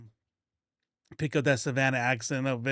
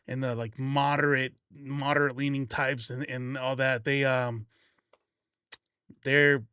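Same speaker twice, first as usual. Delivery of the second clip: put-on country accent. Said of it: "with the country accent".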